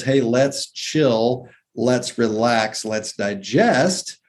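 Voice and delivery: slow, easygoing drawn-out delivery; laid-back. Acted. Voicing the nervous system telling the body to chill, laid-back. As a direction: take it very slowly, as if unwinding.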